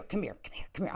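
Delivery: beckoning that fades into a breathy whisper; mock whisper. Host beckoning a viewer closer, playful whisper. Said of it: "I wanna whisper to you".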